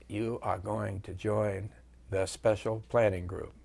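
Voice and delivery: a hint of a soft Virginia general, unhurried; soft Virginia accent. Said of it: "he had that soft Virginia accent".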